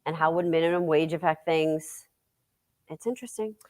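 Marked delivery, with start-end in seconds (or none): 2.9-3.5 soft unvoiced aside; whisper. Real, not acted. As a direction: whisper it to yourself.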